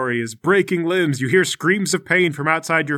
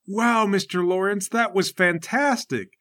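Bingle; 4 semitones higher than usual. Acted. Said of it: "and Bingle's there waiting".

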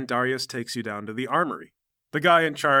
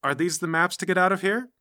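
Cherry; 6 semitones higher, 3 dB louder than usual. Acted. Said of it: "Cherry has been eating the snacks, and she goes".

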